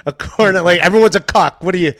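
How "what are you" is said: fast, higher mocking jeers; mocking taunts. Mocking a friend for liking anything, fast jeering taunts. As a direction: rattle off the taunts like a schoolyard bully. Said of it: "giving them shit about that".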